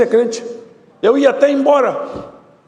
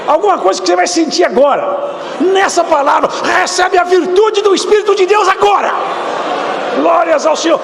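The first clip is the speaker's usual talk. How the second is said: fiery preaching; 7 semitones higher than usual. Acted. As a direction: proclaim it over the congregation. Preacher calls down the Spirit. (pregação inflamada, em voz alta e aguda)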